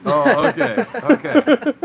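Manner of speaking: high, loud surprised oh okay; sudden realization, voice jumping up. Real, not acted. Realises the penny donation rule.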